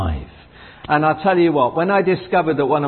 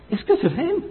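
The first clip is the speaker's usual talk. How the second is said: joyful declaration. Acted. Declaring faith, pitch very high.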